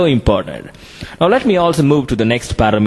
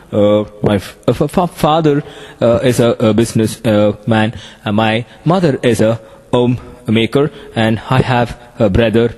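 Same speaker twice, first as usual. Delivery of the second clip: filler-heavy demo; 2 semitones lower than usual. Shown as a demonstration. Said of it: "so this air gap without your knowledge".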